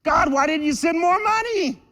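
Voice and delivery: high, pleading complaint to God; whiny complaint. Retold or imitated. Congregant whining to God about money and relationships. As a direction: whine up at God like a resentful kid. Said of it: "we're kind of resistant".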